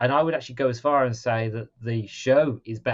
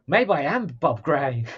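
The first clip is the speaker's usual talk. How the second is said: mock shocked Pennywise; 2 semitones higher, 4 dB louder, slower than usual. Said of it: "He was like".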